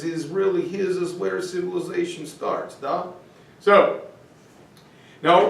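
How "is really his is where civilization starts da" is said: mock Russian leader, softer at the end; Vladimir Putin. Teacher voicing the Russian leader's claim, mock Russian accent. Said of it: "That's why Vladimir Putin says".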